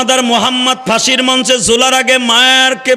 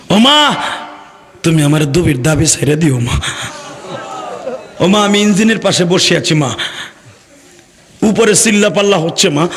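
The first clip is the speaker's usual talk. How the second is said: mournful call to his mother; understated desperate plea; pleading son; 4 semitones lower than usual. Retold or imitated. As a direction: plead with "ma" as a sorrowful refrain. Doomed son pleading with mother by phone.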